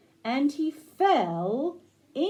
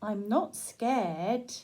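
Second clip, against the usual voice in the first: bear voice; 3 semitones lower, 3 dB quieter, much slower than usual. Acted. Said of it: "the little bear is saying".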